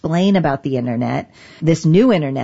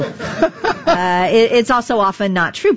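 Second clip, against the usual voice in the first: words through a laugh; 5 semitones higher, slower than usual. Real, not acted. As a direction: chuckle while saying it. Laughing about crackpots.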